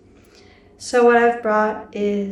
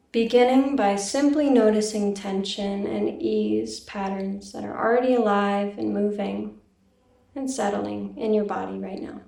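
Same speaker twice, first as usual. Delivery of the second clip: calm, even meditation guiding with long pauses; guided meditation. Real, not acted. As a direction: gently lead listeners inward, leaving silence between phrases. Leads a meditation.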